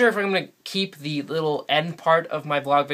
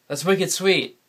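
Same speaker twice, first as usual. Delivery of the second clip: New England stress on "wicked" in "That's wicked sweet", a bit higher; New England slang demo; 5 semitones higher, slower than usual. Shown as a demonstration. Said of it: "we say wicked instead of the word very".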